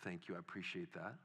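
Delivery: put-on quiet, humbled reply to a child's praise; hushed, touched thanks. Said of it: "And I would say".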